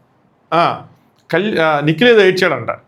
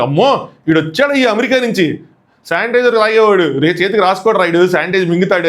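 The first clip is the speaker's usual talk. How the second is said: mock trolling; 2 semitones higher than usual. Audience trolling a fussy contestant, mock jeering. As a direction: jeer at him like a mocking crowd. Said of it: "గట్టిగా troll చేస్తారు".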